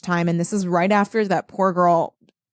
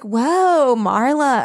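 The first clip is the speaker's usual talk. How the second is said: mock surprise; 4 semitones higher, much slower than usual. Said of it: "everyone's like".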